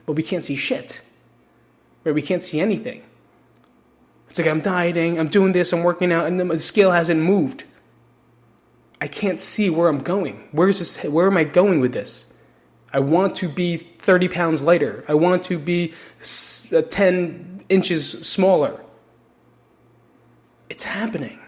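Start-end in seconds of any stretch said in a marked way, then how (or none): 4.5-18.8 frustrated dieter. Retold or imitated. Frustrated dieter voiced as quote. 20.7-21.4 soft whisper. Acted. Whispered reassurance after quote.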